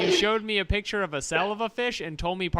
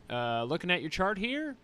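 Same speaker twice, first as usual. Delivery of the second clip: dominatrix doctor; 3 semitones higher, 4 dB quieter than usual. Pretend. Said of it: "shitty new character I've been doing".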